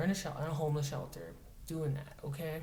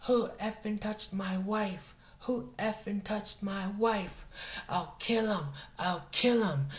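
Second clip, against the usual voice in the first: higher-pitched, drawn-out imitation of a screaming man; mock enraged yelling; 5 semitones higher, slower than usual. Retelling a hippie's outburst over his wife, mock enraged yell. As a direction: imitate his furious threats, raised pitch, held back from full volume. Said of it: "he starts yelling and screaming at the top of his lungs".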